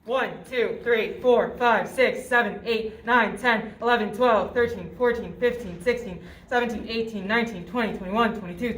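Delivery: loud, steady rhythmic count; counting cpr compressions. Shown as a demonstration. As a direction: count out each chest push firmly. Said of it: "I'm gonna begin C P R".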